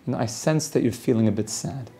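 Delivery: soft, gently voiced therapist; soothing therapist. Robot therapist to a client it senses is sad, soothing. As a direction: softly offer a caring observation. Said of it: "a very soothing therapist's voice".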